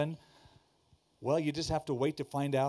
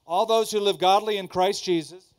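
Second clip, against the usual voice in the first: verse repeated louder, "those" pushed; 3 semitones higher, 7 dB louder than usual. Shown as a demonstration. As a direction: prod the congregation with a louder repeat. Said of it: "Come on, do you".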